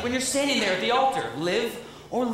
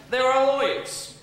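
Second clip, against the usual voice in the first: chuckling through the punchline; giggly aside about lawyers; laughing; 6 semitones higher, 3 dB louder, slower than usual. Real, not acted.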